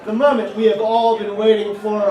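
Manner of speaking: loud emcee introduction to the crowd; announcer build-up. Real, not acted. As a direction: hype the room for the act. Host announcing next act.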